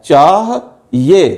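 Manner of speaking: "चाह ये" said as chah, pause, ye; split word. Shown as a demonstration. Teacher showing students where the sound splits. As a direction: break "चाह ये" in two with a pause. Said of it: "ये से पहले हे की आवाज़ है".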